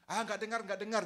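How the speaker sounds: loud, high, laughing fake "didn't hear"; mock pretending not to hear. Preacher mocking someone who pretends not to hear, loud and laughing. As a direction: play deaf on purpose, half laughing. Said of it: "Pura-pura nggak dengar".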